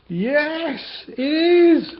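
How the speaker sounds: high, loud growling bear voice; bear roar. Acted. The bear bursting out at the animals, roaring.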